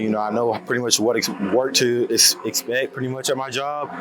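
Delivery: out of breath, broken words; winded after working out. Real, not acted. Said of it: "forgive me if I sound winded".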